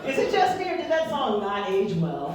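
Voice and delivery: mock disbelief. Comic reacts to creepy lyric.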